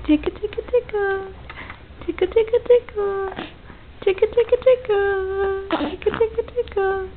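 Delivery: high playful tickle chant; giggly tickle attack. Real, not acted.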